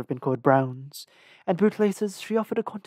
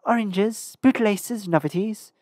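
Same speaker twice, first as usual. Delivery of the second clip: mock Cockney hawker calling out wares; Cockney peddler crying oranges and bootlaces; Cockney street cry; 6 semitones higher, 5 dB louder, slower than usual. A narrator's reading. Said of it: "crying with a suitably Cockney accent".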